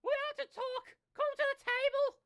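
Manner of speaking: high, loud mom summons; yelling across the room. Acted. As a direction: shout for him to come over. Mom voiced.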